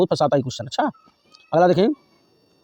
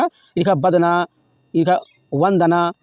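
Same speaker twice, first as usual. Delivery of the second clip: slow reading out; much slower than usual. Shown as a demonstration. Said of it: "ये बिल्कुल सही रूप लिखा है".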